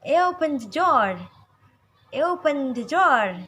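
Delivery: loud, brusque order; forceful demonstration of a curt command; rough command. Shown as a demonstration. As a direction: order it roughly, pushing the volume. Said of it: "lebih kasar seperti itu".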